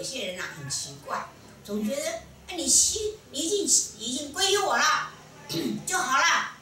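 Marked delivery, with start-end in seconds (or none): 2.5-6.5 high, loud imitation of eager believers; mock naive excitement. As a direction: parody a convert sure that all is fixed. Acts out naive new converts' belief. (模仿信徒高声天真地欢呼)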